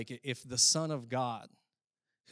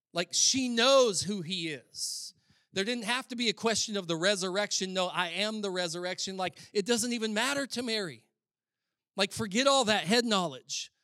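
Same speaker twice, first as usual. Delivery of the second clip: higher, louder pulpit delivery; impassioned preaching; 8 semitones higher, 7 dB louder than usual. Real, not acted. Preacher insisting to congregation it was never an issue, impassioned. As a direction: preach it with rising urgency.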